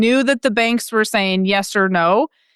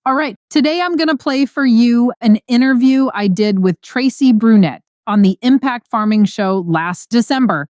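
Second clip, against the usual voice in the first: upbeat, louder host intro read; podcast intro; 3 dB louder than usual. Acted. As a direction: welcome the listeners like a show host. Podcast host opens the show.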